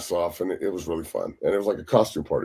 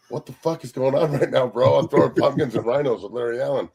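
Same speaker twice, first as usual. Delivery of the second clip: higher-pitched mock bewilderment; retold bewilderment; 4 semitones higher than usual. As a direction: recount your own disbelief to a buddy. Retells his bewildered reaction that night.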